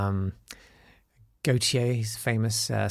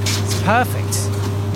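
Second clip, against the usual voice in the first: whispered; 9 semitones higher, 4 dB louder, much slower than usual. Real, not acted. Host savours the vending-machine hum.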